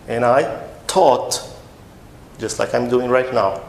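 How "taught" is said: "taught" with a hard initial T; T sound. Shown as a demonstration. Teacher puts it after I for learners, "taught" with T. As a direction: start "taught" on a clean T. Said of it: "Com som de T".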